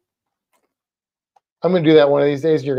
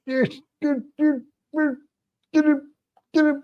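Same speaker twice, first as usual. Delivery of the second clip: higher, urging get it; excited cheering; 11 semitones higher than usual. Real, not acted. Owner urging the lizard to grab the food, excited. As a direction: egg her on to grab it.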